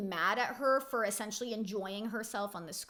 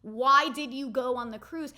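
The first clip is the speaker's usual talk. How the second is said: louder, rising "Why" pushed hard; emphatic frustrated repeat; louder exasperated repeat; 6 dB louder than usual. Real, not acted. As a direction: demand the answer, fed up. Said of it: "What did you want her to do?".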